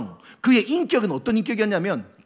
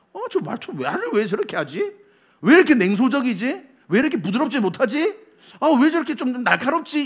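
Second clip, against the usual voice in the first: higher-pitched, querulous wondering; mock disapproving; 5 semitones higher than usual. Onlooker puzzled by a gruff person's manner, mock disapproving. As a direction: complain as a put-off onlooker.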